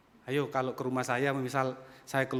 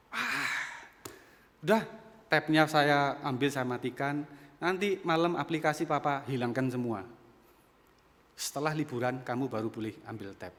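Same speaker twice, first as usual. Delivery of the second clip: mild retold anger. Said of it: "Marah muntap".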